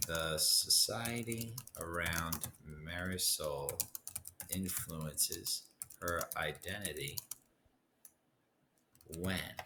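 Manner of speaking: slow, deliberate dictation pace; slow model sentence. Shown as a demonstration. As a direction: spell out the thesis slowly so students can write it. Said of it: "models thesis sentence slowly".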